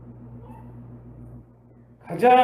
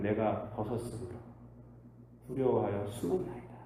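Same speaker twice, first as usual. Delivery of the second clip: fearful Adam; 7 semitones lower, 11 dB quieter than usual. Acted. Adam answers God in fear.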